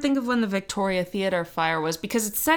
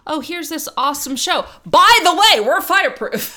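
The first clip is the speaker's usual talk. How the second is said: mock ad voice; 6 semitones higher, 7 dB louder than usual. Mocking theater advertisement.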